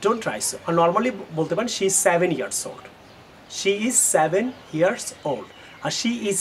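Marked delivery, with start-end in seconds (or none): 1.8-2.8 slow model sentence. Shown as a demonstration. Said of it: "তাহলে আপনি এজটা বলবেন না". 3.6-5.5 slow model sentence. Shown as a demonstration. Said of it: "তাহলে আপনি এজটা বলবেন না".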